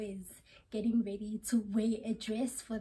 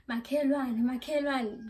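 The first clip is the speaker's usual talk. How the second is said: lightly voiced neighbor calling out; a hint of a neighbor calling over. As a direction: call out to the neighbor lazily. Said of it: "which means neighbor if you're not Zulu".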